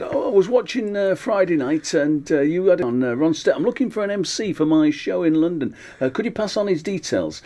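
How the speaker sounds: a hint of a chirpy caller; fake promoter. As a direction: pose as a London promoter. Friend's fake promoter call.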